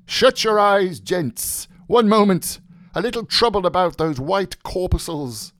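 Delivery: high, ringing mock sermon; preacher's tone. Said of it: "He added in a preacher's tone".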